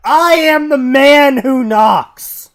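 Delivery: slow booming menacing declaration; menacing shout. Acted. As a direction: roar it like a drug lord. Quoting Breaking Bad.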